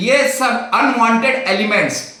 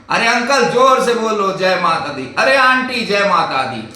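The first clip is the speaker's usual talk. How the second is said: cheering shout; 4 dB louder than usual. Retold or imitated. Young pilgrim urging older climbers, laughing cheer. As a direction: egg on the uncle and auntie to shout. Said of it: "वो मेरे क्या बोलता है".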